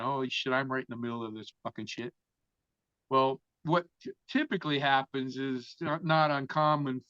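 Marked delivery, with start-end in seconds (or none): 0.0-2.1 low murmured panic, barely voiced; thinking it to himself while hiding, hushed; hushed inner thought. Hiding boy thinks in a hushed murmur. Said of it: "And I'm thinking".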